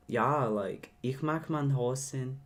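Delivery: slow mock German accent. Shown as a demonstration. Co-host recalls the class attempt, mock German accent. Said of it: "tried to do a German accent".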